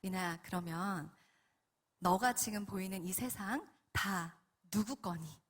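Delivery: slow, softly posed question; patient divine voice; calm Holy Spirit. Retold or imitated. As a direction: question gently, word by word. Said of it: "또 이런 질문을 하십니다".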